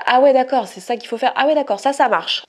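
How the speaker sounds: bright, high "oh okay, got it"; mock realization. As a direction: act out catching on fast, a bit overwhelmed. Voicing own reaction to trends.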